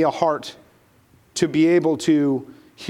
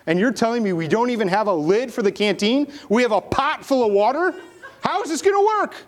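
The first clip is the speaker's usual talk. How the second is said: exasperated complaint; 3 semitones higher than usual. Acted. Jonah complains to his brothers.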